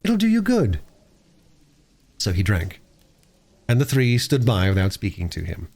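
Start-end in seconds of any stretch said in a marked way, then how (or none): 0.0-0.8 put-on high-pitched, kindly girl; gently coaxing. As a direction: reassure him in a high child's voice. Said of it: "said Bobby gently".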